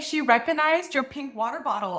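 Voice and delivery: ordinary delivery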